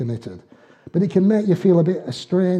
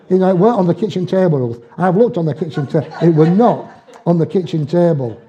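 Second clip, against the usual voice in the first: quick, louder, insisting; indignant protest; 4 dB louder than usual. Retold or imitated. Husband insists to Ruth the wallet wasn't on the table, indignant. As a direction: stamp each claim, half laughing.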